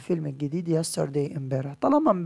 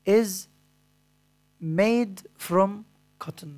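dictating; 3 semitones higher, 3 dB louder, much slower than usual. Shown as a demonstration. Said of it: "أنا دلوقتي همليك بعض الكلمات".

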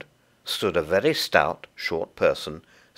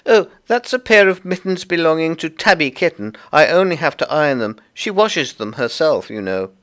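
high, loud little creature voice; busy Tiggywinkle; 9 semitones higher, 7 dB louder than usual. Acted. Tiggywinkle explains the washing to Lucy, high and busy. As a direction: chatter away as a small fussy laundress.

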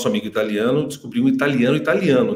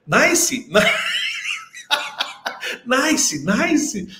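mock clueless nice; 10 semitones higher, much slower than usual. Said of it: "no final, brasileiro, né?".

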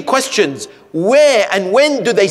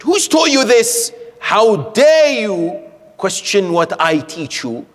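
sharp, raised, outraged scolding; a teacher's indignant rebuke, pitched up; 3 semitones higher than usual. Retold or imitated. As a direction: play the affronted teacher. Teacher scolds the questioning boy.

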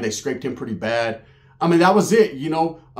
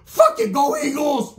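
slow, high, louder mocking cheer; frustrated shout; 12 semitones higher, 4 dB louder, slower than usual. Real, not acted. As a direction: yell it out, pissed at the game. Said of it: "I'm pissed".

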